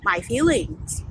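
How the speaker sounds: slow, drawn-out mock self-pity; mock his hurt feelings slowly; imitating the coworker's wounded whine. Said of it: "And you're like".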